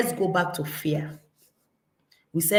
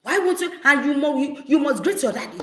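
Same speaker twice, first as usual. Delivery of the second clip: mock scolding parent; 5 semitones higher, faster than usual. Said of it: "You start shouting".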